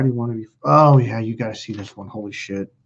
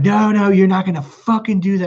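high, emphatic refusal; angry protest, replayed at moderate volume; retold yelling; 6 semitones higher, 3 dB louder than usual. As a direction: re-enact telling him off, pitch up. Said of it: "I'm, like, yelling at him".

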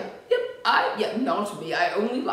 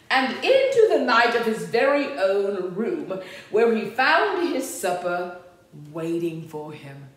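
lively, sing-out story reading; storybook narration; 4 dB louder than usual. A narrator's reading. Reader tells children of Max's room, storybook narration. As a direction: read it to small children, animated.

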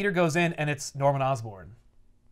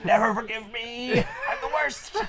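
laughing; 7 semitones higher, slower than usual. Retold or imitated.

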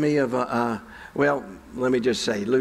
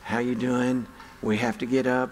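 gentle nurse; 2 semitones lower than usual. Retold or imitated. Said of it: "very gentle".

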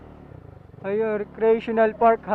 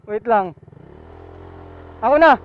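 straining uphill; 4 semitones higher, 7 dB louder than usual. Real, not acted. Struggling motorbike up steep slope.

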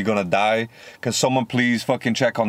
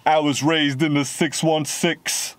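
mocking Americans; 4 semitones higher, slower than usual. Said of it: "I hate it when Americans say that shit".

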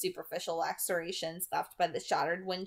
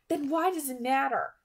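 severe; 7 semitones higher, 4 dB louder than usual. A narrator's reading. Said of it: "working to keep my voice severe".

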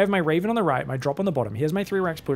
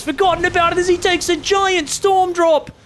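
high, loud burst of excitement; excited play-by-play shout; 13 semitones higher, 7 dB louder than usual. Real, not acted. Caster calling a giant Storm drop, excited shout. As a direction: shout the big play out, pitch soaring.

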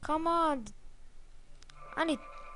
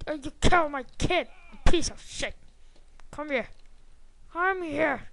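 angry yell; 4 semitones higher, 3 dB louder than usual. Real, not acted. Raging at game enemy.

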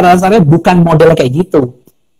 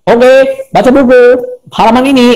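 schoolteacher; 6 semitones higher than usual. Retold or imitated. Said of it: "Kalau dulu kan sekolahnya kan".

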